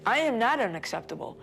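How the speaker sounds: retold protest, falling to a firm close; indignant denial. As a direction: firmly reject the accusation, pitch lifted.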